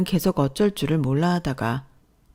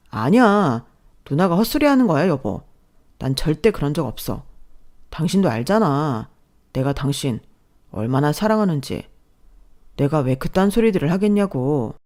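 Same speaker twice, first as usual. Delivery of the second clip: pleading husband; 3 dB louder than usual. Acted. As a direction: placate the wife.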